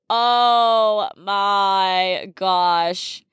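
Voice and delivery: slow drawn-out oh my gosh through tears of laughter; helpless laugh-cry over a silly ick. Real, not acted. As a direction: stretch it out, laughing so hard it nearly turns to crying. Breaks up at flip-flops ick.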